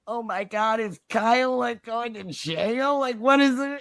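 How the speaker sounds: high, fast-rising panicked sister voice; mock-weepy high voice of a worried sister; imitating crying sister. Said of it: "crying because she's like".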